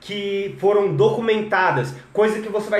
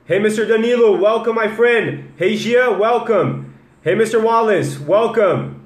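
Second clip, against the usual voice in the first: loud welcomes; 4 semitones higher, 5 dB louder than usual. Real, not acted. Greeting viewers in live chat.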